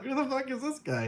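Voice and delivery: high, startled mock clerk voice; shocked clerk. Imitating the hotel clerk who thinks he's seen a ghost. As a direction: play the stunned desk clerk.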